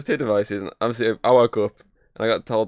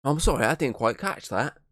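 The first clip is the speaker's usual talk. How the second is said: voice assistant impression; 5 semitones higher, 4 dB quieter than usual. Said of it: "and she'd be like".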